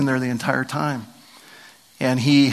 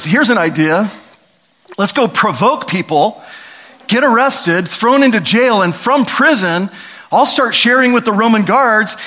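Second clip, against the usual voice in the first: mock strategy pitch; 6 semitones higher, 4 dB louder than usual. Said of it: "If we sat down today and said".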